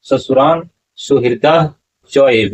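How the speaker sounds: सुहृदः च एव spoken apart, slow; careful recitation. Shown as a demonstration. Teacher repeats the correct reading for students, slow. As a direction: recite सुहृदः च एव clearly and slowly. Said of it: "उच्चारण क्या होगा".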